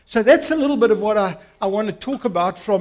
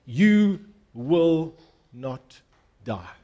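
slow, sinking lower to a hush on die; bold serpent; 4 semitones lower, much slower than usual. Acted. Serpent boldly contradicting God to the woman, lightly voiced. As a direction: assure her coolly. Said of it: "boldly, this talking serpent says".

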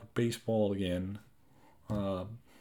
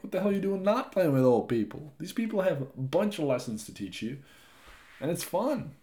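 retorting; 5 semitones higher than usual. Retold or imitated. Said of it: "I'm like".

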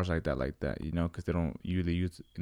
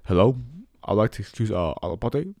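fake parent phone call; 3 semitones higher, 4 dB louder than usual. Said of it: "I called and I was like".

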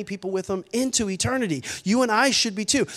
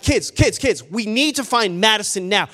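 urgent retold rallying call; calling attention; 4 dB louder than usual. Dad rallying his kids to search, urgent call. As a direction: call the kids together, raised but short of shouting. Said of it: "I'm calling, like, their attention".

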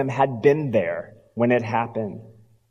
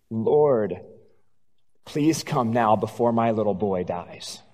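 desperate plea; 5 semitones lower, 5 dB quieter than usual. Acted. Desperate father pleading with Jesus.

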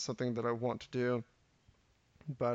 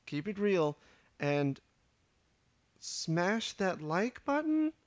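a hint of a hyped youtuber, drawn out; mock youtuber sign-off; 4 semitones higher, slower than usual. Ending his podcast intro with a joking youtuber sign-off, lightly hammed. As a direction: toss it off like a self-aware youtuber outro. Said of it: "What do kids say these days?".

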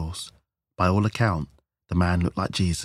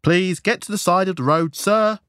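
high, loud, nervous order; nervous officer; 12 semitones higher, 6 dB louder than usual. A narrator's reading. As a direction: call out urgently, rattled. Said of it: "replied the officer nervously".

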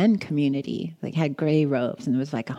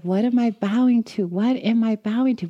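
frustrated; 5 semitones higher than usual. Retold or imitated. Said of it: "I started to get mad and frustrated".

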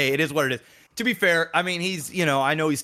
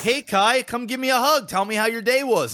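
eager dad; 8 semitones higher than usual. Retold or imitated. Dad home from work, begging his son for a hug, high and eager. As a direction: call him over, bright and high.

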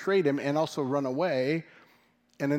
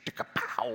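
mouth sound effects; 2 semitones lower, 6 dB quieter than usual. Pretend. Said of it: "that's just how it goes in my mind".

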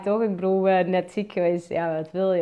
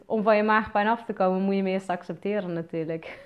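ordinary talk

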